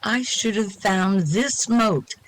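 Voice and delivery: measured verse reading with pauses between phrases; poem recital. Acted. Reader shares a cosmic poem with the group, recited. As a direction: recite it with lifted openings on the questions.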